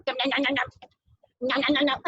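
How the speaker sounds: playful rapid nom-nom chewing noise; munch like a toy animal eating; pretend munching.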